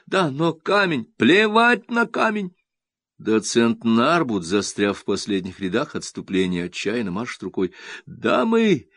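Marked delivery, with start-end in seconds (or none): 0.0-2.6 high slow loud urgent cry; urgent argument. A narrator's reading. Arguing while fleeing. 8.0-8.9 high calling shout. A narrator's reading. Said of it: "кричит он".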